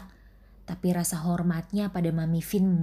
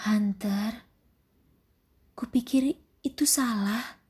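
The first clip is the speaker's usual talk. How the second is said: gently disagree in a higher voice; gentle; 5 semitones higher than usual. Acted. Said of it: "Dengan lembut ia angkat bicara".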